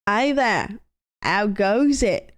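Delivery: put-on faint Australian accent, slow on How goes it; attempted Australian. Streamer greeting the Australian guy, faint Australian accent. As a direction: try an Australian greeting, barely there. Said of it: "Can do an Australian accent".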